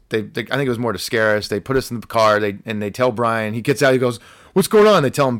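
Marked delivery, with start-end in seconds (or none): 4.5-5.0 high, loud imitation of confusion; raised, urgent mock query; retold bewildered question. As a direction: call it out like a baffled friend. Brian questioning police, acted out.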